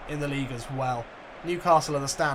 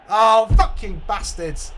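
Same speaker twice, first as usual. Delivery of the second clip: loud, slow, higher cursing; furious curse; 6 semitones higher, 10 dB louder, slower than usual. Real, not acted. Gamer cursing the opposing players after a foul, furious. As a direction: snarl it at the opponents.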